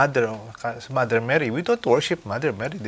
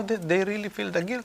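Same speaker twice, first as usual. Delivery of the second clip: normal talking voice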